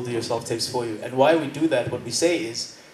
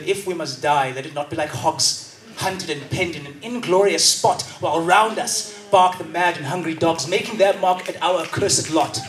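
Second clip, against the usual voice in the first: dramatic declamation, building to a shout; too-intense audition piece; hectic recitation. Retold or imitated. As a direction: hurl the poem at them like a battle cry. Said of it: "That's a bit, um, that's a bit hectic".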